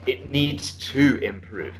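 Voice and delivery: slow model of "It needs to improve"; the corrected phrase. Shown as a demonstration. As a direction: give the fix "It needs to improve" at a slow pace. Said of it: "you see what I'm saying?".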